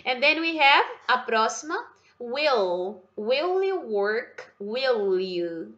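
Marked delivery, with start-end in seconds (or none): 2.2-5.7 "Will you" run together as one unit; linked words. Shown as a demonstration. Teacher showing students how the words stick together. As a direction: glide "Will" straight into "you" with no break. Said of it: "Meio que gruda tudo".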